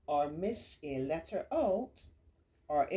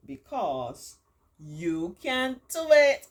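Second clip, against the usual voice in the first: cheering encouragement; 6 semitones higher, 11 dB louder, slower than usual. Real, not acted. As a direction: pump them up with praise. Cheering on child listeners.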